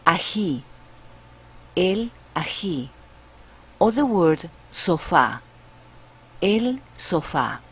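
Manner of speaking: ají stressed on the last syllable, ah-HEE; sofá stressed on the final á; Spanish pronunciation. Shown as a demonstration. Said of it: "For example".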